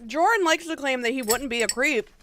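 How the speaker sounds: talking through a mouthful of ravioli; chewing while speaking; mouth full. Real, not acted. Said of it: "Sorry, I have ravioli in my mouth".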